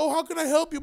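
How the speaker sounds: high, sugary mock service voice; mocking the clerk. Mimicking the late hotel clerk, high and mock-polite. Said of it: "She's like".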